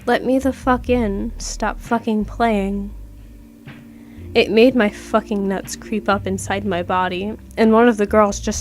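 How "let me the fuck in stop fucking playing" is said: slow, halting, mock creature voice with no human rhythm; halting weird voice. Retelling the thing outside the door, slow halting imitation. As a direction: drag the words out like a thing faking speech. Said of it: "It says in this halting, weird tone voice".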